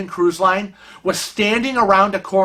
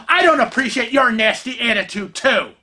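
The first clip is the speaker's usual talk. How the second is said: mild mock yell, pitched up; retold angry retort; 4 semitones higher than usual. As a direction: imitate an angry comeback, throwing the words back. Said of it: "Adrian is still screaming at Kevin".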